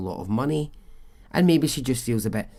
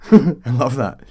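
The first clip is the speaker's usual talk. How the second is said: delighted; 2 semitones higher, 8 dB louder than usual. Real, not acted. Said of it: "laughing delight".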